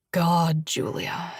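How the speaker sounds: low whisper fading out; breathy whisper. Acted. Josh to Julia, breathless whisper. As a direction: gasp it under breath.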